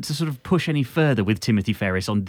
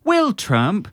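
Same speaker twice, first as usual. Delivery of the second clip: put-on Norfolk accent; much slower than usual. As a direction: lay the Norfolk accent on thick, slowly. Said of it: "crack out your most broad Norfolk accent".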